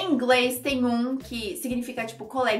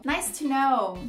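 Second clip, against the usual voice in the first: mildly over-polite reply; a touch too nice to be sincere; overly kind; much slower than usual. Shown as a demonstration. Person responding to some news, slightly sarcastic. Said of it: "tá sendo gentil ao extremo".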